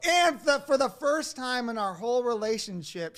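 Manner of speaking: talking through loud, high laughter; slowed, laughing disbelief; laughing while telling. Real, not acted. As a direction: laugh your way through the words. Laughs retelling the disaster.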